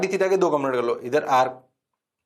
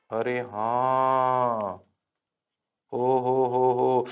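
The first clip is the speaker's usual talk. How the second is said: mock delight; 4 semitones lower, much slower than usual.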